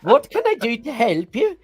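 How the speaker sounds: high cartoon Swedish accent; chirpy Disney Swede shopkeeper.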